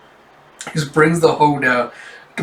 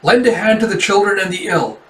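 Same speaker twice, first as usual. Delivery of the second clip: higher, insistent commanding tone; acted urgent command, pitch raised; gritted-teeth urgency; 5 semitones higher, 4 dB louder than usual. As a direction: order them to get moving now. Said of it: "he grits his teeth and goes".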